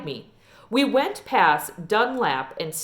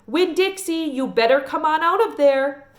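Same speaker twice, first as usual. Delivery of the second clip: higher calling into the yard; hollering for the dog; 7 semitones higher, 4 dB louder than usual. Retold or imitated. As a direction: call the dog out loudly over the gate. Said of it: "went up to the gate and hollered".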